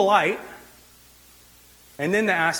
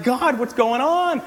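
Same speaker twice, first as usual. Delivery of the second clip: higher, aggrieved whining at God; complaining Moses; 6 semitones higher than usual. Retold or imitated. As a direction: whine at God like he's forgotten you. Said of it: "Moses is like".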